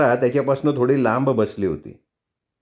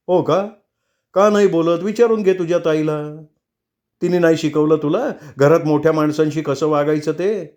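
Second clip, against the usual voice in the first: angry retort; 4 semitones higher than usual. Acted. Husband's angry retort in quarrel.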